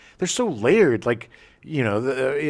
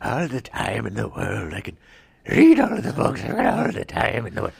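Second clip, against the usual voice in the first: a hint of a Twilight Zone bookworm; lightly voiced bookworm. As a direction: lightly act the last bookworm on earth. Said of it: "Time Enough at Last, about the bibliophile".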